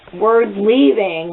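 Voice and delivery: slow, stretched-out comeback; retold exasperation, drawn out; exasperated retort. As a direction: drag the words out at the guards. Exasperated answer to guards.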